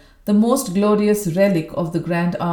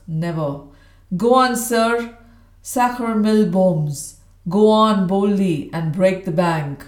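loud barrack-room bluster; hoarse old soldier; 4 dB louder than usual. Acted. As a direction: boom like a rough old soldier. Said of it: "a barrack room intonation of the worst order".

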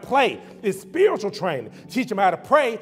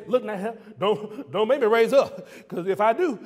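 Bernie Mac. Retold or imitated. Preacher doing Bernie Mac warning kids, comic stern voice. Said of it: "we will have to go Bernie Mac".

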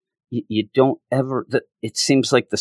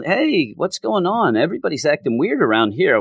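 confused hero; 5 semitones higher than usual. Retold or imitated. Voicing confused characters.

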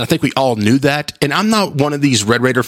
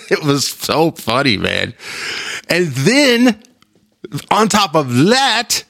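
laughing; 5 semitones higher, much slower than usual. Real, not acted. Laughing at the story.

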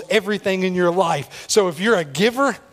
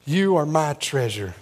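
tender; 3 semitones lower, slower than usual. Acted. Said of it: "Just walking through the place saying".

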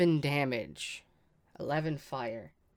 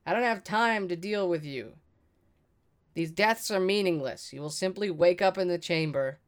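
yelling out; 3 semitones higher than usual. Acted. Player's character dismissing the kobolds' deaths, raised declaring voice. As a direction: call out firmly to the foes, easing off from a shout. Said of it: "And I yell out".

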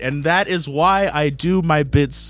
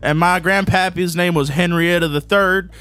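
put-on Arkansas accent; 3 semitones higher than usual. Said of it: "assumed Arkansas was pretty redneck".

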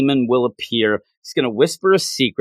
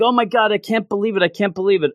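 excited disbelief; 5 semitones higher, faster than usual. Retold or imitated. Voices spoiler kid again.

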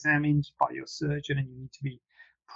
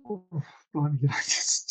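yawning. Real, not acted. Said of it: "did I just yawn on live T V then".

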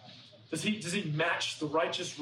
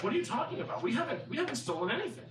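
high-pitched, baffled protest; indignant denial; 5 semitones higher, faster than usual. Retold or imitated. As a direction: protest as if wrongly accused. Accused brothers deny stealing the cup.

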